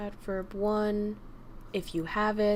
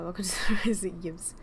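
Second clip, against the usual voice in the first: whisper; faster than usual. Real, not acted. Whispered aside.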